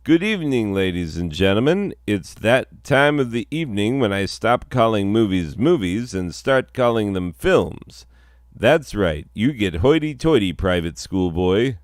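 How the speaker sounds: a touch of a pompous show host; host intro. Acted. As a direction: announce it a bit grandly. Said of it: "Rem, you say".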